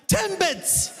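high, mock-exasperated "Timbits."; incredulous customer. Customer repeating "Timbits" to a clueless new cashier, high and exasperated.

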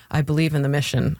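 lightly imitated deadpan claim. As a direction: quote it drily, with no conviction. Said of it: "claimed in the most deadpan way".

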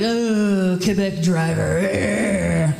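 slow, drawn-out scornful sneer; parents' scornful complaint. Retold or imitated. Parents cursing a driver who cut them off, slow scorn. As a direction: spit out the insult slowly. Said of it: "my parents would be like".

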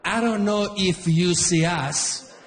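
put-on slow, polite Italian accent, drawn out; a courteous Italian father, taking his time; Italian dad. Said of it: "my dad".

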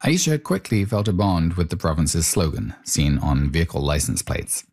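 a light documentary read; a hint of broadcast voiceover; radio narration. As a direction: lead in to the next clip like a presenter. Host narration bridge.

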